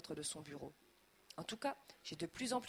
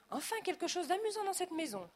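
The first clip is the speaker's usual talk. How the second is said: high, loud haughty remark; prim; 11 semitones higher, 4 dB louder than usual. A narrator's reading. Snooty guest praising the house, prim and haughty. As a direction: look down your nose. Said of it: "d'un air pincé".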